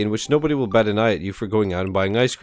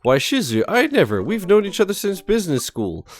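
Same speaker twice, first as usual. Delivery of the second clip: higher, prissy fake-dad voice; mock offended old friend; 4 semitones higher than usual. Daughter pretending to be dad's business school friend, higher mock indignation. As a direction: play a scandalized old classmate.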